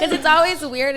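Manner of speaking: laughing through the words; loud amused laugh-talk; a burst of laughter over the line. Real, not acted. Laughing while asking.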